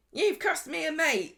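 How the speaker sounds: a hammed-up hurt whine; annoyed Carla. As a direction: whine it like a sulking friend. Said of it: "She gets really annoyed about this".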